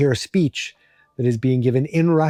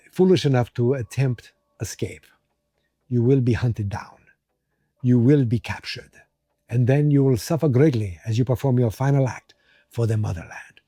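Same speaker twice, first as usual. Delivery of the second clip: put-on a faint, half-sure Russian accent on a guard's speech; lightly put-on Russian accent, stern guard; attempted Russian accent. Guard lectures prisoners in a weak Russian accent. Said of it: "I'm trying".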